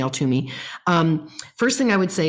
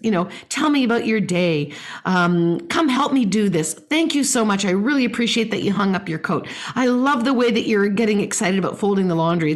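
gushing parent voice; 3 semitones higher than usual. Shown as a demonstration. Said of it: "as opposed to saying".

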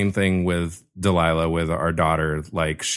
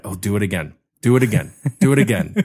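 put-on nagging child; 2 semitones higher, faster than usual. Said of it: "say to my dad".

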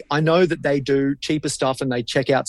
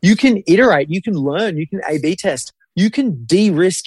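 exasperated retort; 4 semitones higher than usual. Acted. Continues retort, listing reasons.

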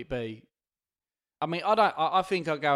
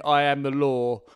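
loud, mild mock yell; half-shouted boast; mock scream; 6 dB louder, slower than usual. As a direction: call it out loudly, as if carried away. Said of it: "be screaming".

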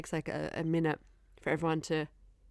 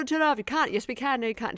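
lightly mimicked squabble, pitched up; quick mock argument between officials; higher-pitched retold bickering; bickering back and forth; 6 semitones higher than usual. Acted quarrel in retold scene.

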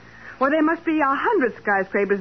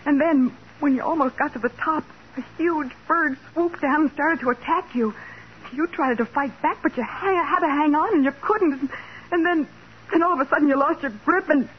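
frightened; 5 semitones higher than usual. Acted. Patsy recounts frightening dream.

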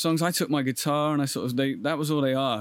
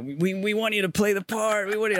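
higher-pitched retold excitement; excited casting offer; 8 semitones higher than usual. Director phoning the actor with the part, excited. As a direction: offer the part with a rising, high lift.

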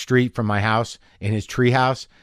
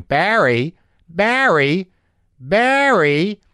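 rising, higher and higher calls of Barry; a mother calling out Barry, louder each time; 9 semitones higher, 6 dB louder, much slower than usual. Retold or imitated. Mother calling her son at the table, rising pitch.

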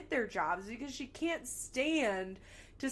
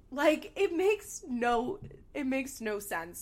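exasperated outburst; 3 semitones higher, 5 dB louder, slower than usual. Real, not acted. Ranting about nonsense plan.

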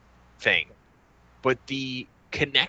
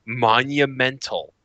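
slow mocking "monumental"; sarcastic air quotes; 4 dB louder, slower than usual. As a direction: drawl it with ironic air quotes. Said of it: "end quote".

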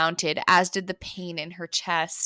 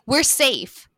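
relieved exclamation; 6 semitones higher, 5 dB louder than usual. Acted. Heroine relieved cry.

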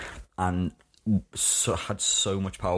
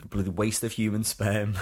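lightly imitated Manchester accent, slow and scornful; a hint of the Manchester PE teacher, drawing out "waste of human sperm"; 3 semitones higher, slower than usual. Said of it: "such a strong Manchester accent".

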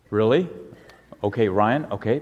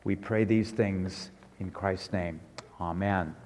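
leading a prayer; 4 semitones lower than usual. Real, not acted. Pastor leads children in thanks to God, prayerful.

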